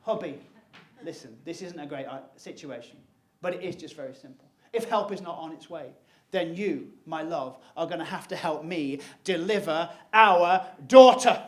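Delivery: calm wife. Retold or imitated. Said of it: "She said".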